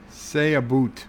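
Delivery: lightly teasing Canadian "boot" for "about"; a hint of stereotyped Canadian; mock Canadian accent. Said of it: "would not have guessed you were Canadian".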